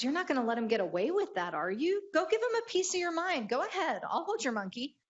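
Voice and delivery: fast, rising, pushy passenger; egging-on passenger. Acted. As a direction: urge her on, pitch climbing. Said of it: "He goes".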